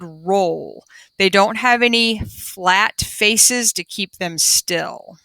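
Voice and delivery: slow, clear storybook reading; reading to children. Acted. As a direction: read it out slowly for the class. Reading the class book aloud.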